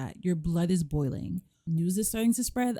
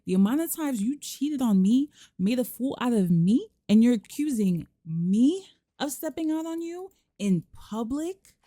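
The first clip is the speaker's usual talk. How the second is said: mock furious wife; 5 semitones higher than usual. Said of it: "Oh, she's pissed".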